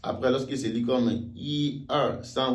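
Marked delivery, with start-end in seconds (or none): 1.3-2.5 "i, er, san" with "i" held high and level; first-tone yi in counting. Shown as a demonstration. Teacher counts for learners, "i" high and level. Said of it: "nous sommes en train de compter".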